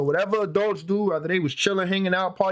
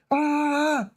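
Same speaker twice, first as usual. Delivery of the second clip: retold scream; 10 semitones higher than usual. Retelling waking from an attack, mock scream. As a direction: imitate your own scream, held back. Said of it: "I'm screaming".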